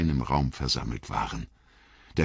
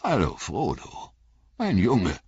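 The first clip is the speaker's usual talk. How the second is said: put-on high, cheerful old hobbit; high old hobbit voice, warmly pleased; old hobbit Bilbo; 5 semitones higher than usual. A narrator's reading. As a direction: greet him like a fond old uncle.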